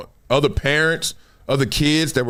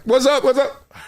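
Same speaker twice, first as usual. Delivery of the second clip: calling out greetings; 9 semitones higher than usual. Retold or imitated. Greeting people while walking past.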